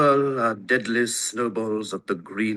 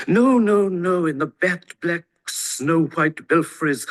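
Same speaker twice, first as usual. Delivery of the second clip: a higher emphatic no; emphatic denial; 6 semitones higher than usual. A narrator's reading. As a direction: brush the child's idea aside firmly. Correcting the child's question.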